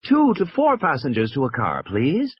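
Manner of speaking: high, measured public announcement; recorded announcement. A narrator's reading. Recorded voice instructing passengers at the cars, announcing. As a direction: read it out like a recorded boarding notice. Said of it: "a recorded voice was saying".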